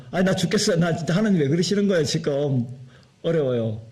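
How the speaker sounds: a mock whine, quick, sliding down at the end; complaining. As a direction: grumble to God like a worn-out believer. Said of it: "불평불만 원망합니까?". (하나님께 불평하는 신자의 투덜거림)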